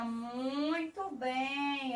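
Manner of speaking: slow stretched "Muito bem" with soft warmth; drawn-out praise. Real, not acted. Teacher praising children for the right answer, slow and warm. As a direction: savour the praise, stretching each word.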